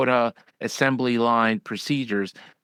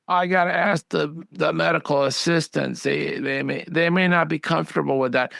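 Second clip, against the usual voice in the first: quoting the doctor in a higher, dithering voice; hesitant doctor; 5 semitones higher than usual. Retold or imitated. Consultant mimics a doctor stalling on his advice, higher and hesitant. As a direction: pitch it up and waver like she's stalling. Doctor's excuses quoted in story.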